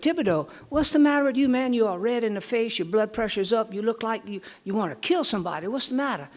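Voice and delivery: quick, pressing questions to a riled-up friend; concerned buddy. Acted. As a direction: play the buddy checking on his pal. Joke character alarmed at friend.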